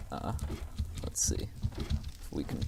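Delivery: whispered aside to self; breathy muttered whisper. Real, not acted. Quiet aside while climbing.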